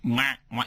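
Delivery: imitated strangled "wah" noise; short, choked wah-wah. Critic mimics a noise from the movie, strangled. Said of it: "That's a strangled noise".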